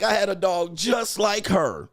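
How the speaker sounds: mock excited woman fawning over a dog; gushing white woman. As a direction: squeal it like she just met her dream dog. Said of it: "She was like".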